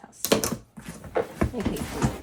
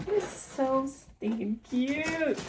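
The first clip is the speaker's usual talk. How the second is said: gushing; 4 semitones higher, 4 dB quieter, much slower than usual. Real, not acted. Gushing over the pink cup.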